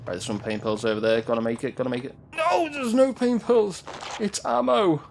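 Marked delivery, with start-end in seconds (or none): 2.4-5.0 exasperated. Real, not acted. Disappointed at pickup.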